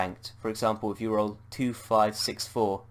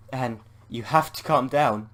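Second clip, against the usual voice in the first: exclaiming; 3 semitones higher, 5 dB louder than usual. Acted. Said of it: "Bob exclaims".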